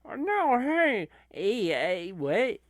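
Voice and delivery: loud, high burst of objection; alarmed protest. Acted. Wrestling fan cutting off a claim that it's fake, alarmed protest. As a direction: cut in loudly to object.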